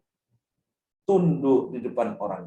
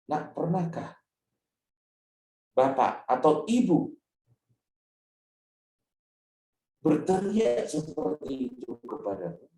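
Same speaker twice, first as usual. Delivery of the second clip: gentle question; 3 semitones higher than usual. Shown as a demonstration. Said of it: "kita lalu bilang".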